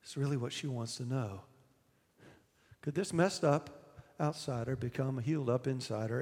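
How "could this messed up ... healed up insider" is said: quiet, wondering version of the question; hushed inner question. Acted. The woman wondering privately, hushed and quiet. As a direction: say it softly to yourself.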